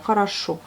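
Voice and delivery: хорошо said kha-ra-SHO, unstressed o's as a, stress on the final o; Russian word said slowly. Shown as a demonstration. Teacher showing the class how хорошо sounds. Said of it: "la seule lettre qui est accentuée, c'est celle qui est à la fin du mot".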